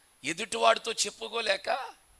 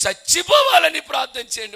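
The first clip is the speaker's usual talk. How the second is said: a grave, solemn demand, louder and higher; 8 semitones higher, 11 dB louder than usual. Retold or imitated. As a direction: lay it down heavy and solemn, like a final request. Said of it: "గంభీరమైన స్వరంతో అన్నాడు". (గంభీరమైన స్వరంతో గట్టిగా)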